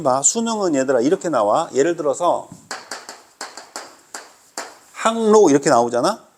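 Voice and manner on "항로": 항로 drawn out and loud as a pronunciation example. Shown as a demonstration. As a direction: sound out 항로 with a long first syllable. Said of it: "요렇게 발음한다". (항로를 길게 늘여 크게 발음)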